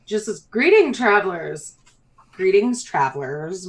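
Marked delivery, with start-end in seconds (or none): 0.4-1.8 mayor's greeting. Acted. 2.3-3.7 mayor's greeting retried. Acted. Second try at mayor's greeting.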